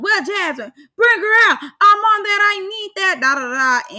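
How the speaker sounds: loud, high-pitched imitation of someone going off; animated, aggressive mock tirade. Vlogger imitating Nicole going off on Jasmine, loud and extra. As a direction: act out an over-the-top aggressive outburst, trailing off on the da-das. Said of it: "very animated, very extra, very aggressive".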